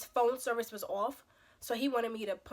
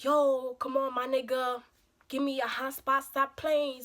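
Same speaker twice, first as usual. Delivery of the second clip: whiny pleading, imitating the date; mock whining; 2 semitones higher, 4 dB louder, slower than usual. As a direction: whine at her to hand it over, mockingly. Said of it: "So he's whining".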